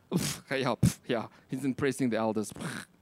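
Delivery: low, sneering mutter; grumbling critic. Pretend. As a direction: scoff like a jealous church member. Mocking disgruntled critics in the church.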